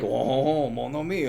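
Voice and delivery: lightly put-on French accent; a playful, soft French "ho ho" voice. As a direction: toss it off as a cartoon French charmer, French accent. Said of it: "that sounded more like Lumiere".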